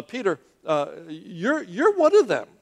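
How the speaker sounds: accusation climbing to a high, loud finish; single him out, building to a loud high cry; pointed accusation. Acted. Voices second woman accusing Peter.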